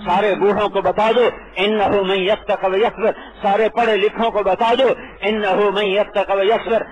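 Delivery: preacher building a rousing refrain; preaching refrain. Acted. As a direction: proclaim each line like a preacher calling out.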